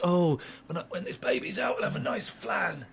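hushed, half-whispered dreamy musing; softly mocking a pregnant woman's craving; mock dreamy mum. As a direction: sigh it out like a mother-to-be. Mocking expectant mother's daydream.

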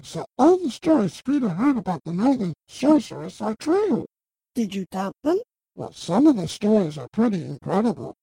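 a hint of a low, awed traveller; lightly voiced visitor. Deeper voice for visitors.

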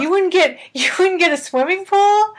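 put-on high, loud, incredulous child voice; amazed kid. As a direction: play yourself at nine, stunned by the answer. Child self quoted to mom.

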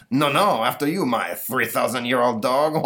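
loud, sarcastic Frenchman; mocking French accent. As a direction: throw the mockery right back. Napoleon mocks back.

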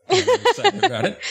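a hint of Shatner's pauses; William Shatner. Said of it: "stop talking like William Shatner".

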